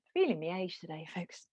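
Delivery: breathy whispered joke; whispered aside. Real, not acted. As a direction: whisper it to the class. Joking aside about feeling old.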